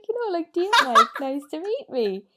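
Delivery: mock boyfriend voice. Imitating boyfriend garbled line.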